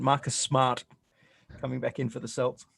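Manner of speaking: put-on Boston accent, dropped r's in Smart and Celts; play-by-play call in a mock Boston accent. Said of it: "See, I can do a Boston accent".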